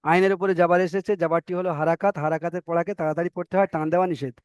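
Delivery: steady rote recitation of the rule. Shown as a demonstration. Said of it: "ইজরা করে আপনাদেরকে শোনাচ্ছি". (মুখস্থ নিয়ম আবৃত্তি)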